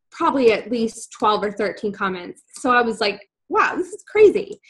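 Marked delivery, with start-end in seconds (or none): 3.5-4.6 high-pitched retold amazement; amazed. Amazed by response to her first post, astonished. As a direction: marvel at it, voice jumping up.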